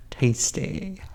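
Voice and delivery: whispered aside; soft unvoiced aside. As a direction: breathe the word conspiratorially. Sarcastic aside.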